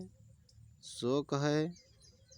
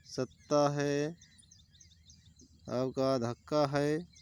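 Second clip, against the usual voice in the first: slow repeat; slower than usual. Shown as a demonstration. Teacher repeats example word slowly.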